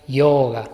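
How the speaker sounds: yoga with the O held double length; "yoga" with a long, two-beat O; correct Sanskrit pronunciation. Shown as a demonstration. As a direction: draw out the O in yoga. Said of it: "la forma correcta de pronunciarlo sería".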